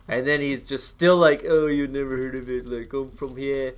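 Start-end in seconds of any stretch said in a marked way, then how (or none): 1.5-3.7 lightly put-on Irish lilt; imitating an Irishman badly; attempted Irish accent. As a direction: do a half-hearted Irish accent. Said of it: "I can't do an Irish accent".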